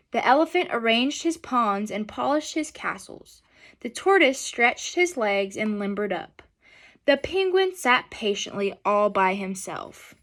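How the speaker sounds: gentle, unhurried storybook reading; reading to children. A narrator's reading. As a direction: read it aloud to a class of kids.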